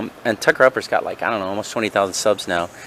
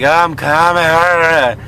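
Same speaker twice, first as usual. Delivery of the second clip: slow, higher, drawn-out reassurance; drawn-out reply; 6 semitones higher, 6 dB louder, much slower than usual. Retold or imitated. Answering A J on the phone, slow drawn-out reply. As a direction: stretch it out lazily. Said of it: "And I'm like".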